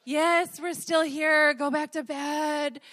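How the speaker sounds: gentle parent, slowing on go back to bed; loving parent. Retold or imitated. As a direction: soothe a scared child back to sleep. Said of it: "in their loving, graceful, parent-like way".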